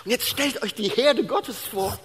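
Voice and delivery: hohe, drängende Predigerstimme; eindringliche Predigt. Real, not acted. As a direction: predige mit erhobener Stimme und Nachdruck. (inbrünstig verkündigen, hoch gespannt)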